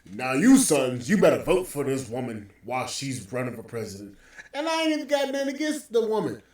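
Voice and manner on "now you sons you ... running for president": mocking Obama voice. Mocking the president urging black men to vote. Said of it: "he coming out to you like".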